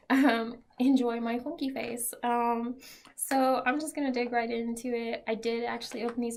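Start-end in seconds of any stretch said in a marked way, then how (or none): 0.1-2.1 half-numb mouth after the dentist. Real, not acted. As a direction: talk with a numb, stiff mouth. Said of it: "half of my face is not quite moving the right way".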